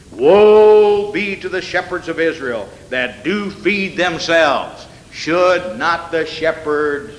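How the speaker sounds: slow, drawn-out solemn reading; slow scripture reading. Acted. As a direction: stretch the words like a lament.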